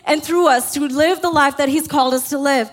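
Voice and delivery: urgent rallying prayer, pressing forward; impassioned preached plea. Acted. Pastor voices thirty churches praying to God together, impassioned plea. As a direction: plead with God on behalf of the whole church.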